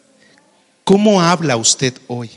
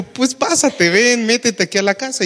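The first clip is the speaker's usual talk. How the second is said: higher, gently coaxing neighbor; kind neighbor voice; 8 semitones higher than usual. Retold or imitated. Neighbor calls the boy into her house, higher and gentle.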